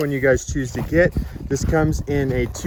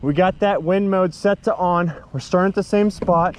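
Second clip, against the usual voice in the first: processed mic voice; 4 semitones higher than usual. Real, not acted. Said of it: "it's also affecting the voice quality".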